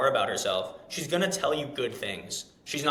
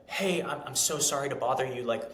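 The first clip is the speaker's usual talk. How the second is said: lame delivery. Shown as a demonstration. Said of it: "I sound fucking lame".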